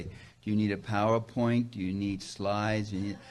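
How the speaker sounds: slow, deliberate host offering slides; fussy event organizer. Retold or imitated. To a visiting speaker, a lightly voiced slow fussy organizer. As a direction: lightly mimic the helpful organizer. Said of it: "they always say".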